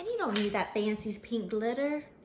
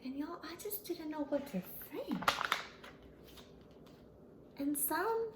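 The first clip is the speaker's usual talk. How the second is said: much softer, lost for words; hushed, hurt; 3 semitones higher, 9 dB quieter than usual. Acted. Pony telling kids of the fans, softly hurt. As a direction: say it softly, bewildered.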